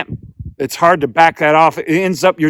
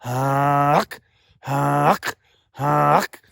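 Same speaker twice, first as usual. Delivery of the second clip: goose call uck; much slower than usual. Shown as a demonstration. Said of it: "Now you hear that hum?".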